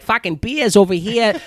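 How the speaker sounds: put-on thick Boston accent, dropped R's; Boston townie accent, R's dropped. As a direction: do your old college Boston accent. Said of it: "I need to sound general American".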